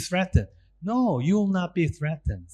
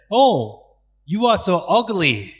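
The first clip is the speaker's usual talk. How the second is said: higher, louder sneering jab; mock insult; 3 semitones higher, 6 dB louder than usual. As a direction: play a mean classmate mocking a face. Insulting someone in college.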